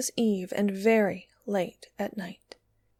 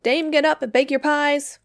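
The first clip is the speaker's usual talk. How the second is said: a bright loud crow of a call; loud cock's cry; 5 semitones higher, 5 dB louder than usual. A narrator's reading. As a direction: call out like a rooster waking the house. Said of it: "loudest the cocks cried out".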